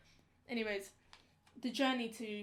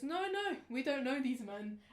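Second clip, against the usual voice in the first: telltale denial. Retold or imitated. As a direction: imitate an unconvincing denial, pitched up at first. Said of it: "a tone which you know".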